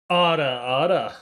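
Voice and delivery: low, falling, seductive "Aura, aura"; sexy. Shown as a demonstration. Performing chat's request for "Aura, aura", sexy. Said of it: "as sexy as possible".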